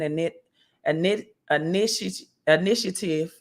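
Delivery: swollen jaw, stumbling over words; after root canal. Real, not acted. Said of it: "a root canal yesterday, so I'm a little sluggish".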